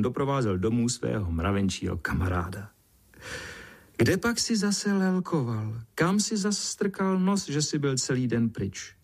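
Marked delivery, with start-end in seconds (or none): 4.0-9.0 scolding ant mother. A narrator's reading. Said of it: "Zlobila se mravencova maminka".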